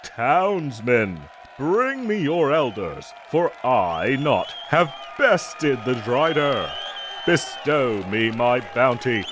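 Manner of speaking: booming herald to the town, lightly hammed-up; mock conqueror proclamation. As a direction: proclaim it like a proud bounty hunter. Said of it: "time for the masquerade".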